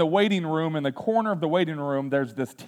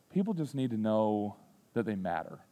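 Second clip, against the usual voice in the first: sincere repeat; 5 semitones lower, 9 dB quieter than usual. Shown as a demonstration. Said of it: "That's what I told him".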